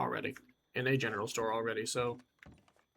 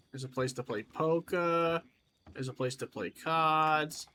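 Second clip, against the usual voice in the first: put-on slow, stretched Western accent; mild slow Western accent; Western accent showing. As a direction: let the Western accent slip in, slowly. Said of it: "Sorry, my accent was showing".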